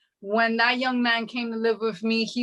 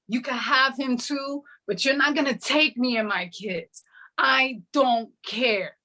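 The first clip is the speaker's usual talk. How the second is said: raised, defiant challenge to the devil; defiant rebuke; 4 semitones higher than usual. Retold or imitated. Retelling how she turned and rebuked the devil over the burning car, defiant. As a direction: tell the devil off with rising fire.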